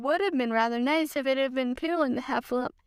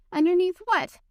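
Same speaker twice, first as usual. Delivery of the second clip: puzzled question; 6 semitones higher, 4 dB louder than usual. A narrator's reading. Pooh puzzled.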